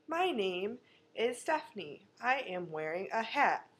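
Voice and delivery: lightly voiced flat reading, like a fifth grader; stilted kid reader. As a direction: read it woodenly like a child in a school play. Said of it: "the little fifth graders are reading the lines".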